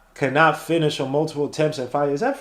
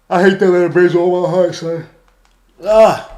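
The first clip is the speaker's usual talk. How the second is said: angry outburst; 4 semitones higher, 8 dB louder than usual. Real, not acted. Braves beating the Mets.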